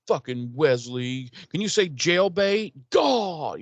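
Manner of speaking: lightly voiced whiny Napoleon Dynamite; a mild mopey Napoleon Dynamite whine; Napoleon Dynamite impression. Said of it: "doing his best Napoleon Dynamite".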